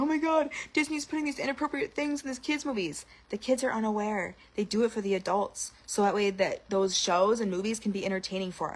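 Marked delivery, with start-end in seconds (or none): 0.0-3.1 mock outraged parent. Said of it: "people are like".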